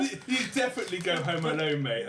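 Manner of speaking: laughing while teasing. Real, not acted. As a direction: tease through a laugh.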